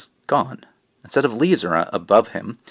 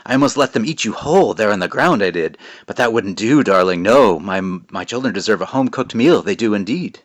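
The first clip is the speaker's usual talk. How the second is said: creepy witch voice; 4 dB louder than usual. Acted. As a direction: purr it like a hungry old witch. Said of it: "I guess I'm doing some voice".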